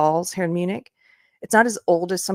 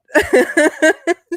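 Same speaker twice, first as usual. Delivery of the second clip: high, loud burst of laughter; big laugh; 12 semitones higher, 10 dB louder than usual. Real, not acted. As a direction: cracks up at her own joke. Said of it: "Sorry, Germans".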